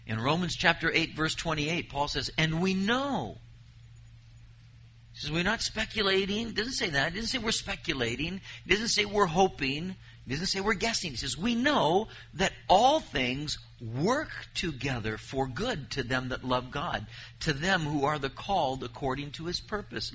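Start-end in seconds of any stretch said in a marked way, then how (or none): 2.4-3.4 And we know, slow and lifted; stress on know. Acted. Preacher quoting Paul to the congregation, emphatic. 5.3-11.1 higher, driving through the list; emphatic preaching. Acted. Preacher insisting to his listeners, raised and emphatic. 11.4-20.1 measured, solemn reading of the verse; scripture reading. Acted. Preacher reading Deuteronomy to his congregation, solemn. Reads Romans 8:28 slowly.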